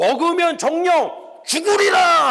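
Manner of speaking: booming, high, slow, shouted godlike voice.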